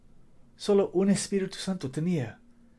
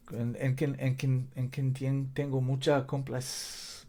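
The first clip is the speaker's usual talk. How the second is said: Spanish with an American accent; English speaker groping for Spanish words; 4 dB quieter than usual. Real, not acted. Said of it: "perdón mi español".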